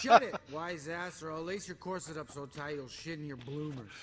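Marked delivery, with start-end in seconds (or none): 0.0-1.2 laughing. Acted. Laugh heard on line.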